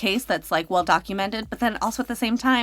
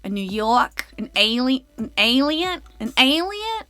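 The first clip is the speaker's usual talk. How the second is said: New York accent; 2 semitones higher, 3 dB louder than usual. Shown as a demonstration. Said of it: "That's as best as I got".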